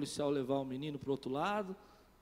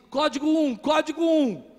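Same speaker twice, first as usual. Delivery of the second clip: louder and higher, clipped radio call; police alarm call; 8 semitones higher, 11 dB louder than usual. Retold or imitated. Officer calling for security, loud alarm call. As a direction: bark the code out.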